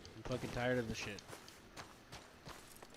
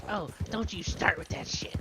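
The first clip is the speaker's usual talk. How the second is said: snappy; 6 semitones higher than usual. Retold or imitated. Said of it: "she got snappy at me".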